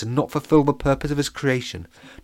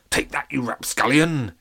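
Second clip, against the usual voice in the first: sleepy pirate mutter; 4 semitones higher than usual. Acted. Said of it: "he murmured".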